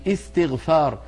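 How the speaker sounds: "استغفار" begun on a clear "i"; initial hamza with kasra. Shown as a demonstration. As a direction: say "استغفار" as "istighfar", starting afresh. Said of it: "هذه الهمزة عند البدء بها مكسورة". (نطق «استغفار» بهمزة مكسورة)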